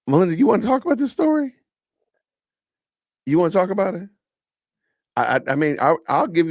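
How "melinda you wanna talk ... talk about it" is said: high, loud eager call; excited call-out. Real, not acted. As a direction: hype her up to join. Calling chat member excitedly.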